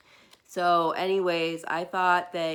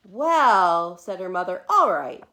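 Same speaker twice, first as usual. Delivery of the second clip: mother giving in; 10 dB louder than usual. Acted. Mother gives in.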